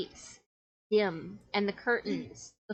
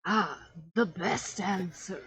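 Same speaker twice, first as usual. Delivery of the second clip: theatrical magician; 2 semitones lower, slower than usual. Acted. Magician approves the answer.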